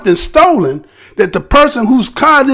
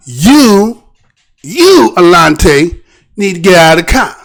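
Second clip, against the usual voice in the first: lower, fast order; officer command again; 4 semitones lower than usual. Retold or imitated. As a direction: repeat the cop's demand. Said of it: "that officer said".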